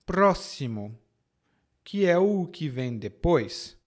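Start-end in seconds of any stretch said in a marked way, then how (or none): 0.0-1.0 "Próximo" lower, X said as ss; "Próximo" as a teaching word, with a clear s; s sound. Shown as a demonstration. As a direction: model "Próximo" as PRÓ-ssi-mo. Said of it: "O segundo som é de S".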